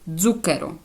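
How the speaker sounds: "Дзукеро" starting on buzzing dz; voiced dz onset. Shown as a demonstration. Teacher showing zeta at word start, voiced dz in "Дзукеро". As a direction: say "Дзукеро" with d plus z first. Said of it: "вона тоді читається як звук".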